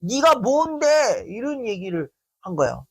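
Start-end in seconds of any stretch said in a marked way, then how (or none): 0.0-1.2 slow, higher, loaded with anger; angry challenge. Retold or imitated. Friend snapping at the speaker in anger, slow and pitched up. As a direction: spit it out with real contempt. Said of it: "화를 막 담아가지고".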